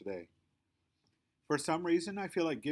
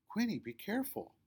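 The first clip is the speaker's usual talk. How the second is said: bossy Victoria; 10 semitones higher than usual. A narrator's reading. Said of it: "Victoria stops me".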